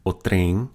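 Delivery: trem with a nasalized vowel; nasal vowel. Shown as a demonstration. Teacher shows the word for train with a nasal vowel. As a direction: let the em of trem go through the nose. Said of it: "nasalization of that vowel".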